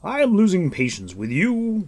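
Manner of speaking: high, loud impatient warning. A narrator's reading. Gwydion warning Gurgi, loud and impatient. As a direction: lose your temper. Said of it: "warned Gideon".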